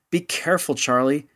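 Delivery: high, urgent cry of warning; alarmed warning. Acted. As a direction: call out in fear for him. Woman warns Charlie on car.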